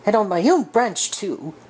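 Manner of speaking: high, indignant fuming voice. Acted. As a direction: huff with indignation. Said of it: "he was still fuming".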